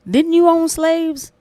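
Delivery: high, slow, pointed gotcha question; pointed accusation. Pretend. Host pretending to confront the guest, slow pointed challenge. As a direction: drag it out like a trap sprung on her. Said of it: "I would have been like".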